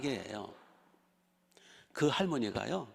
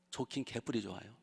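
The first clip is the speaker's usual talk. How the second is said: scornful aside; 6 dB quieter than usual. Real, not acted.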